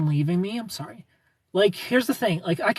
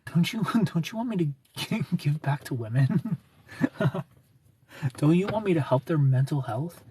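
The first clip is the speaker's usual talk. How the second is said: mocking the ex. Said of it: "He claims".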